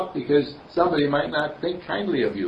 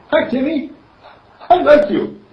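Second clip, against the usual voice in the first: put-on much higher and louder child's voice; little girl; 14 semitones higher, 10 dB louder than usual. Little girl greets her brother Timmy, high and bright. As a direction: chirp it like a shy little girl. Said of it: "And she said".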